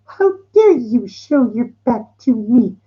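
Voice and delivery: a slowed, high outraged emperor. Retold or imitated. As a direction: demand it like an offended emperor. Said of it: "he goes".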